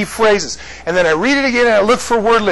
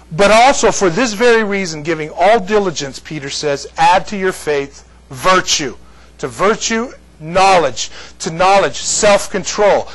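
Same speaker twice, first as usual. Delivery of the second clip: scripture reading. Acted. Teacher reading Second Peter to the class, measured. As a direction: read it like Scripture aloud.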